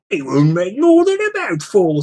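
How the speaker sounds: a troll shrugging off a tiny meal. Acted.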